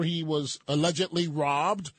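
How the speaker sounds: "allegedly" picked out with deliberate emphasis; stress on allegedly. Real, not acted. Host recalls the bishop's robbery for listeners, stressing "allegedly". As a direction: lean pointedly on "allegedly". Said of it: "Emphasis on the word allegedly".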